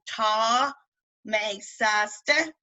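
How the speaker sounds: "Ta" and "sa" with long AH; careful, separated syllables, long "Ta"; practising long vowels. Shown as a demonstration. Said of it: "practice them in words that you know".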